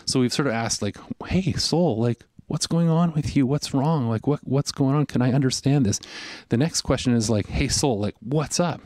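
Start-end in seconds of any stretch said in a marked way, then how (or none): 1.3-6.0 higher-pitched, searching questions; inquiring. Acted. Preacher asking his own soul what's wrong, inquiring. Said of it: "question of inquiry and introspection". 7.5-8.8 mildly confrontational questions to oneself; challenging. Acted. Preacher confronting his own soul, challenging. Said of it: "It's kind of like a question of challenge".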